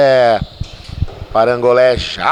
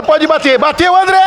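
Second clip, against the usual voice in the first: excited; 12 semitones higher than usual. Real, not acted. Shot on goal, commentator rises.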